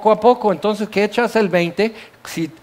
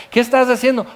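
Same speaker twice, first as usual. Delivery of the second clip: voice on the phone; 5 semitones higher, faster than usual. Retold or imitated. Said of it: "te dicen en la línea".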